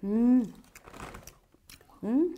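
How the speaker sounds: muffled by chewing; chewing food. Real, not acted. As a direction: mouth full of burger. Seen 1: Woman bites and chews the burger throughout the labelled words.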